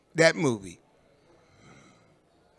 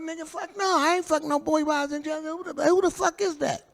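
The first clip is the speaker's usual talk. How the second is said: retold outraged denial; 13 semitones higher, 4 dB louder than usual. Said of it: "I'm like".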